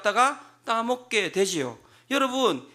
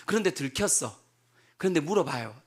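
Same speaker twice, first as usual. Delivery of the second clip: normal talking voice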